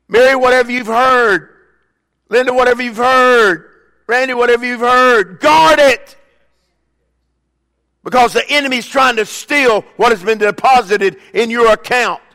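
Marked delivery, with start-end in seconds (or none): 0.1-6.2 preaching build to a shout. Real, not acted. Preacher charging named congregants.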